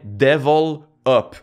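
"devil up" split into two words, DEVIL then UP; misheard as devil up. Shown as a demonstration. Creator showing what people heard, "devil up" in two words. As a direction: separate "devil" from "up". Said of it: "les gens entendaient".

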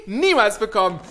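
high, loud defiant yell; defiant shout. Acted. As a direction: hurl it at the villain. Hero defies the villain.

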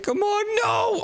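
drawn-out, high-pitched cry of frustration; dismayed outcry. Real, not acted. Gamer touched by the lasers, dismayed outcry. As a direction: rise sharply into a protesting no. Fails the laser obstacle course.

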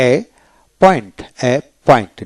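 এ পয়েন্ট split in two, with one p sound; single-p pronunciation. Shown as a demonstration. Teacher showing learners the double-p word: এ পয়েন্ট with one p. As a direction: say এ, pause, then পয়েন্ট with a single p. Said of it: "একটা পি উচ্চারিত হবে".

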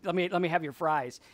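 callous guy mooching. Retold or imitated. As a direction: rattle it off, not caring at all. Careless guy grabbing her food.

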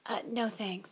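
soft, weak refusal; weakly. Acted. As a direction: say it faintly, feeling ill. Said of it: "said Ron weakly".

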